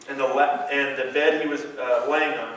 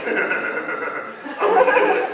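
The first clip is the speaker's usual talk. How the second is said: mock defiance; 14 semitones higher, much slower than usual. Mocking defiant reaction.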